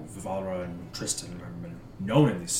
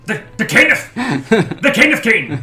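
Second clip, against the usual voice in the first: laughing squeal, much higher; 12 semitones higher, 14 dB louder, slower than usual. Real, not acted. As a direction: crack up mid-word. Laughing over the word caneth.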